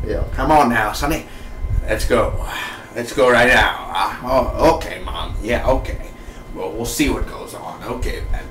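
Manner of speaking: lightly voiced drama character talking through his teeth; a hint of a Fargo character's talk; Dodd. Reviewer playing a favorite character, lightly put-on voice. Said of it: "I just love the way that he talks".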